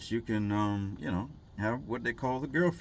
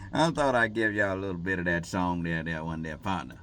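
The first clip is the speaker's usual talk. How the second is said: put-on cowboy drawl; 5 dB louder than usual. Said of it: "I don't really talk like that".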